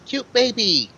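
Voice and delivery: put-on high, gleeful burst over a baby; delighted cooing. Stubbs freed from the foot sees the baby, delighted. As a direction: squeal it with delight, falling at the end.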